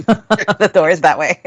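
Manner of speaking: slow, amused through laughter; laughing. Real, not acted. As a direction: show them the door with a laugh. Laughing while dismissing quitters.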